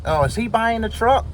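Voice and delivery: high, mock secretary voice; imitating the secretary.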